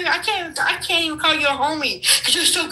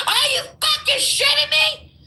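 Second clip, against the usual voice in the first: high, exasperated disbelief; incredulous outburst; 8 semitones higher than usual. Real, not acted. Guest reacting to host's notion, incredulous. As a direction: throw it out high in real outrage.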